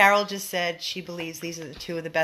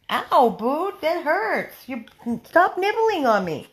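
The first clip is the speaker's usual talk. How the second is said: ouch; 7 semitones higher, 4 dB louder than usual. Real, not acted. Bitten by the dog.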